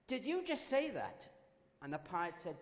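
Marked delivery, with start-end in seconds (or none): 0.1-1.3 startled question. Acted. Burglar startled by parrot.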